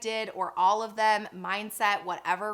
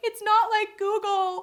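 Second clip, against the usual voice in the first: mock very high, loud, drawn-out tearful outburst; 12 semitones higher, 5 dB louder than usual. Retelling a past moment in the car: imitating own past breakdown. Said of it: "when I had the breakdown in the car".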